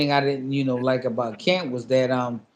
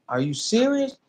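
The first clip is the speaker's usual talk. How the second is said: higher, hushed incredulous question; retold disbelief; 8 semitones higher than usual. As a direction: still can't believe the offer. Retold disbelief beside his wife.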